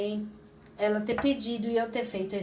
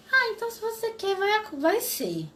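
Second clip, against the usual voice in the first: certain; 9 semitones higher than usual. Retold or imitated. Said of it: "Mas ela falou com uma certeza".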